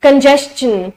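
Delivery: congestion said as con-JES-chun; chun ending. Shown as a demonstration. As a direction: put a clear "chun" at the end of congestion. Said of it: "it's चं".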